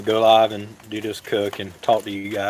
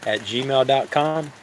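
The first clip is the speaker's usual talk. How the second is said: slow dictation; 2 semitones higher, slower than usual. Shown as a demonstration. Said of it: "you can email at".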